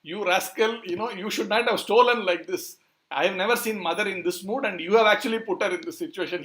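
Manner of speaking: acted reproach, putting it all on the culprit; blaming scolding. Balram turns the tables on Krishna, scolding him. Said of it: "start blaming Krishna".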